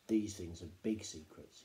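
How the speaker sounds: father sharing secrets with Danny, low and slow; secretive. A narrator's reading. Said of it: "veiled and secretive".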